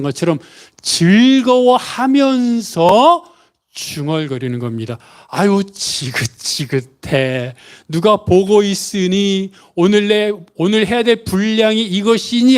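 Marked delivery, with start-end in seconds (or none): 5.3-12.6 slow, weary mock grumble; fed-up muttering. Preacher imitating a reluctant Bible reader, slow grumbling. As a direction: play someone sick of a daily chore. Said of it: "하면서 중얼거리는 것이 아닌".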